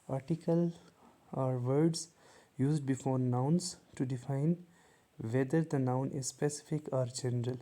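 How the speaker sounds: very slow, word by word, like dictating a definition; slow dictation. Shown as a demonstration. Teacher reading the definition slowly to students. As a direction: spell it out slowly for the class.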